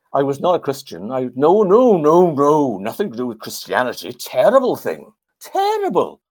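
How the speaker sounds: emphatic Welsh lilt, swooping high; Trevor Bray. Retold or imitated. Veteran denies being a Christian, imitated Welsh accent. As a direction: mimic a Welshman dismissing it emphatically. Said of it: "he said in his Welsh accent".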